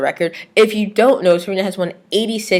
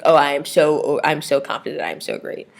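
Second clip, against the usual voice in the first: mock boasting; 4 semitones lower than usual. Vlogger imagining Serena bragging, boast trailing to whisper. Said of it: "be like".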